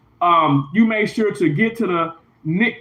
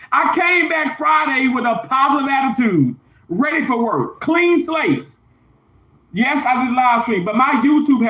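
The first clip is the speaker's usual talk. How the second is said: raised voice; 5 semitones higher than usual. Real, not acted. Heated rant about being fired.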